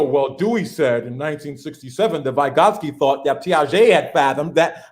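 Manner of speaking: lightly mocking a stuffy scholar, low-pitched; pompous academic. Mimicking academics who only quote others, low and droning. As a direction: drop the voice into a dry citation drone. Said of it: "You know".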